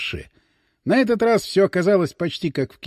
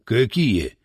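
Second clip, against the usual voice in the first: naive smile; 7 semitones lower than usual. A narrator's reading. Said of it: "наивно улыбнулся Иван".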